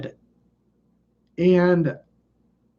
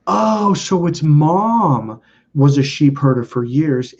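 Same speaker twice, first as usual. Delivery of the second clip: trancelike reading; much slower than usual. Retold or imitated. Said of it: "I'm kinda trancing out again".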